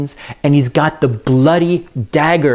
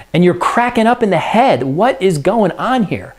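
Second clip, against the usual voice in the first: higher, pushy wife's voice telling him off; high-pitched modern Lady Macbeth scolding her husband; 7 semitones higher than usual. Acted. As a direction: snap him out of it like an impatient wife.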